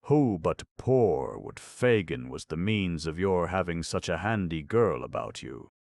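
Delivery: quick, eager pounce on words. Acted. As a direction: seize on the phrase eagerly. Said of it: "eagerly catching at the word".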